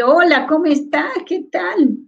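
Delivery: demonstrated breezy, high-pitched hello; informal greeting. Shown as a demonstration. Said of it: "Es diferente a decir".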